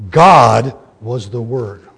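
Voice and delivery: slow, heavy stress on God and Word; emphatic. Shown as a demonstration. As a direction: lean on every word to make the point. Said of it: "what John is saying is".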